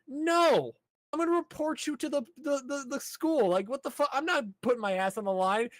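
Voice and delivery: high, lightly acted flustered voice; mock panicked refusal. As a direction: play a nervous rule-follower.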